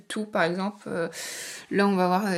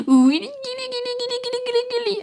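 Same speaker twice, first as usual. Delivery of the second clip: put-on baby talk; 14 semitones higher than usual. Tickling the cat, baby talk.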